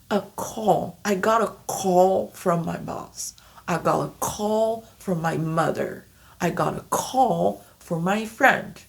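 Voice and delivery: "call" clearly in each sentence; example sentences. Shown as a demonstration. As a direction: model sentences drill. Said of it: "example sentences".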